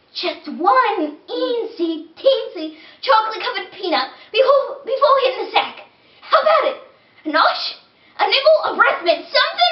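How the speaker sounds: high, pleading little tooth voice; whiny talking tooth. Acted. Tooth begging the boy for sweets, high and whiny. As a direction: beg like a greedy tooth.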